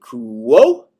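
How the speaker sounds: high, loud quo. Shown as a demonstration. Teacher demonstrating relative ablative pitch. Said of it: "you're going to say".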